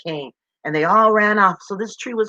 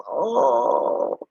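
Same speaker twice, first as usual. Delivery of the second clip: long, drawn-out sad "ohh"; dejected bird "oh"; 4 dB quieter than usual. A narrator's reading. Refused little bird reacts, dejected long "oh". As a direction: let out a mock crying moan. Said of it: "the little bird goes".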